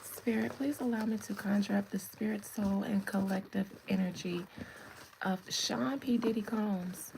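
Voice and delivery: lightly hushed spirit-summoning voice; half-joking conjuring, kept soft; mock séance.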